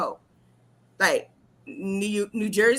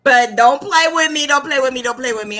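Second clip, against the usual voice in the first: starts louder and fades down; mock warning; 5 semitones higher, 9 dB louder than usual. Real, not acted. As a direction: warn them, easing off each time. Warning about her breakfast order.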